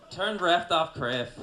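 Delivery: high, very loud mock Asian accent; slow, shouted Asian-accent parody; caricatured Asian accent. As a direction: bark the order in an exaggerated Asian accent. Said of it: "they definitely need an Asian version".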